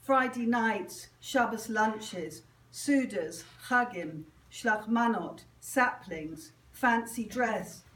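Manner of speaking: deliberate recital, each phrase set apart by pauses; poetry reading. Acted. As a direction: read it as a litany, landing each item separately. Reads own poem aloud.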